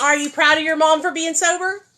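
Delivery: high, loud teasing ask; playful question to son. Real, not acted. Mother asking her son if he's proud of her. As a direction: tease him into saying yes.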